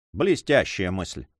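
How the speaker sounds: slow, low sarcastic grumble; mock the idea under his breath; slow scornful grumble to the count; grumbling sarcasm. A narrator's reading. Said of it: "проворчал он".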